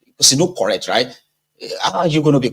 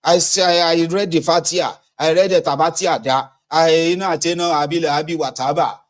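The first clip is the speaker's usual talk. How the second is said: higher, breathless retelling; excited mock recital; 5 semitones higher than usual. Voter boasting he recited prayers, high and eager. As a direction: rattle off the prayers proudly. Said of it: "I was like".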